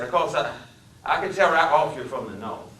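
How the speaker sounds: Deep South drifter, eager to please; deep Southern accent. Acted. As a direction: play the Deep South hitchhiker, friendly. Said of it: "His speech was the deepest South".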